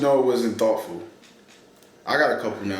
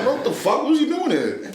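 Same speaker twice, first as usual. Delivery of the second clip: high-pitched, baffled retold reaction; startled disbelief; 11 semitones higher than usual. Retelling his shock as the door opens, startled disbelief. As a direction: blurt it out, thrown by who walked in.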